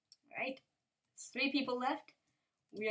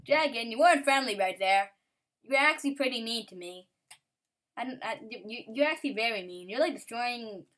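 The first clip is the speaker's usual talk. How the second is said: scolding the dragon; 8 dB louder than usual. Real, not acted.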